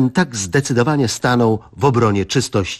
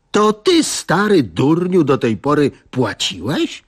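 indignant wife; 6 semitones higher than usual. Acted. Wife bursting from the kitchen, outraged at husband. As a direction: snap at him like a furious wife. Wife storms out with frying pan.

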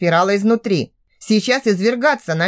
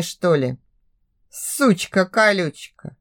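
ordinary delivery

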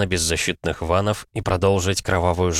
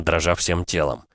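ordinary delivery

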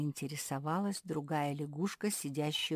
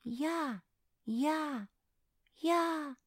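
rapid chatter; 11 semitones higher, 3 dB louder, much slower than usual. Acted. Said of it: "зачастил Дискант".

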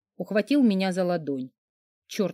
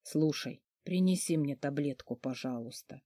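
sick man's plea; 5 semitones lower, 9 dB quieter than usual. Acted. Sick man asks for pill.

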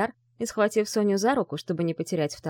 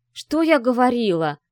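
louder, higher edgy outburst; nervous; 5 semitones higher, 6 dB louder than usual. Acted. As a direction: let the nerves spill out. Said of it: "занервничала Ви".

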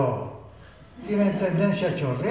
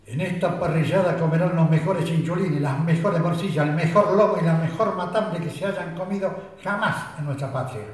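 political speech. Pretend. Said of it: "quiero decir un discurso antes del asado".

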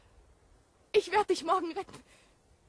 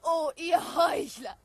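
slow, furious cry of contempt; angry shout; 3 dB louder, slower than usual. Acted. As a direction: spit out the accusation. Abigail confronts John Proctor.

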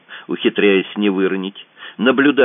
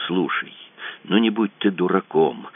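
breathless wheeze; gasping for air while pleading; wind knocked out; 4 dB quieter than usual. Acted. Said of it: "задыхаясь, просипел Белов".

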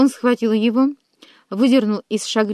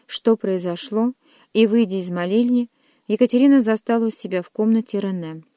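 plain reading voice

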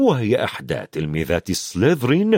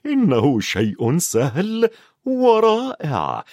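higher, slow and amazed; delighted; 5 semitones higher, slower than usual. A narrator's reading. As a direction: savour the wonder of it. Harry delighted in flight.

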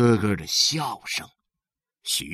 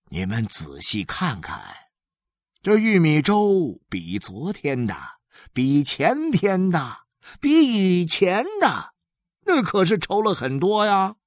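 coaxing father; 4 semitones higher than usual. Acted. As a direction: talk up the meal to disappointed children. Voices father coaxing sons.

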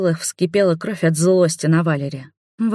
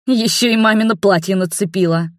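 indignant; 3 semitones higher than usual. Acted. Princess adds angry jab.

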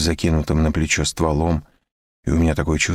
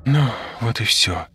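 triumphant; 6 semitones higher than usual. A narrator's reading. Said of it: "победоносно заключает Ольга".

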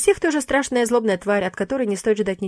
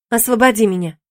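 pleading; 2 semitones higher, 6 dB louder than usual. Acted. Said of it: "взмолилась я".

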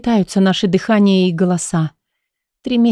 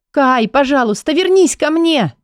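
desperate cry; 6 semitones higher than usual. A narrator's reading. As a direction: cry out for him to come back. Heroine cries out again.

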